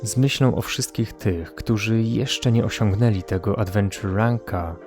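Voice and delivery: usual speaking voice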